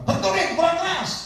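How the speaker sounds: high, exasperated mock command; retold goading. Pastor goads the woman banging her head, high retold command. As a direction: goad her, pitched far above normal.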